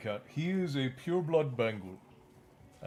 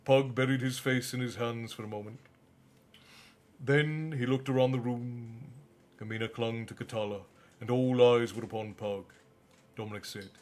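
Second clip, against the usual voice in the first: story narration. A narrator's reading. Reading the novel aloud.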